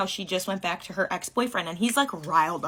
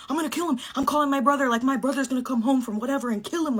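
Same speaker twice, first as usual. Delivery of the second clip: mock angry threat; 5 semitones higher than usual. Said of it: "He's like".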